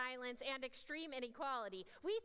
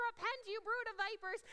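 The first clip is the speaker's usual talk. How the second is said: John the Baptist; 7 semitones higher than usual. Retold or imitated. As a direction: roar it like a wild prophet. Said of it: "he kind of acts like John the Baptist".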